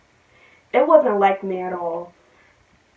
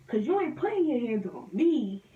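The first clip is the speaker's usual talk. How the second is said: laughing; 3 semitones higher, 12 dB quieter than usual. Real, not acted. Laughs at threat.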